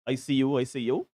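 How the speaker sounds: jokey, half-hearted Jamaican patois voice; a self-mocking attempt at a Jamaican accent; bad Jamaican accent. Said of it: "that's my worst Jamaican accent in life".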